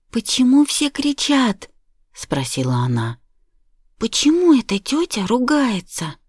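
put-on high, small frightened child; child's voice. A narrator's reading. Little daughter asking her mother, in a child's voice. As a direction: ask like a worried little girl.

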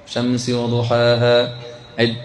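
slow, lilting chant of the verses; slow melodic Quranic recitation. Acted. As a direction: chant the surah slowly with the crowd. Recites surah with audience.

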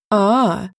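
gleeful drawn-out giggle; a snickering little laugh. A narrator's reading. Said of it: "хихикнула". (хихиканье)

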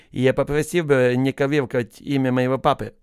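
slow, careful words without clear Л and Р, as in «кавівкать»; lisping L and R. A narrator's reading. Hasan objecting to the officer, polite slow lisp. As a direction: speak politely while swallowing your R and L sounds. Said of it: "не виговорюючи «Л» і «Р»".

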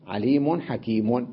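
عليم حكيم said slowly with full tanween, عليمٌ حكيمٌ; slow, give حكيم its full ضمتين; full tanween reading. Shown as a demonstration. Teacher contrasting connected reading with the pausal stop, slow. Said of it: "فلما وقفت عليها قلت حكيم".

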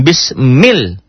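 "Bismil" with the L snapped onto the shadda; struck L. Shown as a demonstration. Teacher showing the struck shadda to students, firm. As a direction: say "Bismil", striking the doubled L. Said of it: "Disambar ke tasydid".

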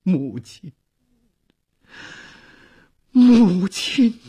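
an emotional call rising from murmur to cry. A narrator's reading. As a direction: call out to mother, building from a murmur. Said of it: "喃喃地呼唤着".

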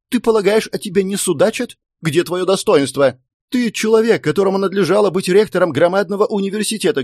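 wife's high-pitched tirade; indignant, excitable scolding; crying out. A narrator's reading. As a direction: berate your husband, pitch riding high. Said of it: "крикнула она".

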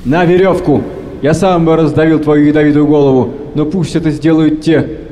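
captain sentencing the sailor in fury; angry command. Acted. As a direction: bark the sentence down. Captain orders a hanging.

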